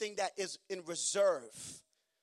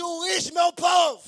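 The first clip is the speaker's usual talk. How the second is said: loud, high declaration; loud high preached verdict; shouted scripture; 10 semitones higher, 14 dB louder, much slower than usual. Acted. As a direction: cry it out like Jesus' verdict. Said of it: "Il dit".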